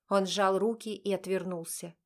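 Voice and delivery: usual speaking voice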